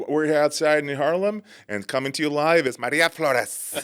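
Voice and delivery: light imitation of a news reporter; lightly voiced TV reporter, live from the scene. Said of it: "that one reporter would always do that".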